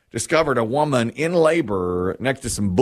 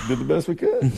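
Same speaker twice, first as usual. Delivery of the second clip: a hint of a sheepish deputy, voice pushed higher; lightly mock the backup's excuse; mimicking the backup deputy; 5 semitones higher than usual. Host mocks the backup deputy's excuse, lightly imitated. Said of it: "That's the backup".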